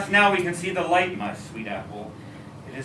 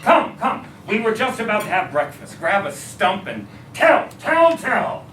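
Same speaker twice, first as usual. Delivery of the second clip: loud high laughing welcome; father thrilled his son is home; overjoyed welcome; 8 semitones higher, 6 dB louder than usual. Acted. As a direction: beam and bubble over with joy.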